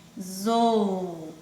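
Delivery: "Avisou" slowly, with gaps between syllables. Shown as a demonstration. Teacher showing the A stands alone, "Avisou" syllable by syllable. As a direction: separate "Avisou" into isolated sound groups. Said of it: "é um grupo de som".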